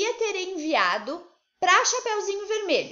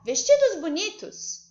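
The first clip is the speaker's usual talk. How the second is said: slow, higher-pitched exclamation; exclamação; 5 semitones higher, 4 dB louder, slower than usual. Shown as a demonstration. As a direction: exclaim it, high and drawn out. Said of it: "ela está exclamando". (exclamando, devagar, em tom mais alto)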